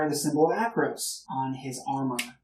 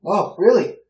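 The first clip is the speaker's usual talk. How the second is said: hearty surprise; 6 semitones higher, 8 dB louder than usual. Acted. Old gentleman reacts surprised.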